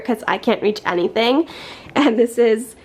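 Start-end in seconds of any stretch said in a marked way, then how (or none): 1.9-2.7 slightly out of breath, talking from the step stool; winded, catching your breath between words. Real, not acted. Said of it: "So sorry, I'm out of breath".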